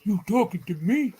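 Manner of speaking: a movie gangster's New York challenge; New York accent. Shown as a demonstration. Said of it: "Can you do a New York accent?".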